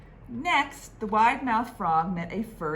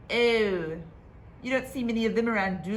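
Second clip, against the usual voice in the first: fast, tight little voice through pursed lips; tiny puckered mouth; 4 semitones higher, 4 dB louder, faster than usual. Acted. Frightened frog to the alligator, puckered small-mouth voice. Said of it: "puckered his lips and made his mouth as small".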